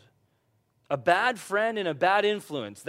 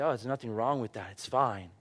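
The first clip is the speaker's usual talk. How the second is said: mock dismissive; 5 semitones lower, 3 dB quieter than usual. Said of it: "we can say".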